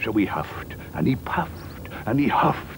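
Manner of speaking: building up. A narrator's reading. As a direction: swell from hush to big sung climax. Building huffing and puffing.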